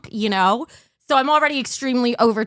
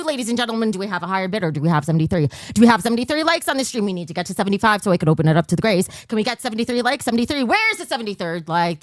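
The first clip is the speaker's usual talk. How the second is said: fast auctioneer patter calling bids; hammy auctioneer, rushing the bids; faster than usual. Pretend. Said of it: "I'm doing my auctioneer voice".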